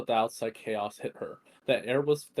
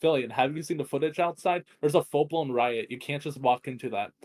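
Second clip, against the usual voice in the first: agitated; 3 semitones higher, 4 dB louder than usual. Acted. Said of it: "his tone growing more agitated".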